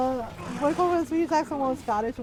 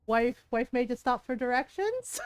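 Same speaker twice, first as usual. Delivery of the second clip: imitating an amused Scottish old-timer; Scottish brogue. Scottish old man teasing dad about his wife, mock brogue. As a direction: tease him in a Scottish brogue. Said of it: "in full Scottish brogue said".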